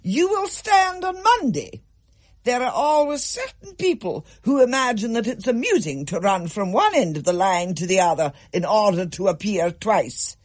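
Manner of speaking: strict form teacher addressing pupils, firm and cold; stern schoolmistress. A narrator's reading. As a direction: lay down the law to a class of girls. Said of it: "fixing them with an iron gaze".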